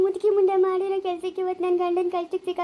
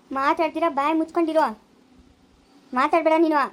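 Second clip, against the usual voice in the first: angry rebuke. Acted. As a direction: shut her up, angry. Son shuts his mother up.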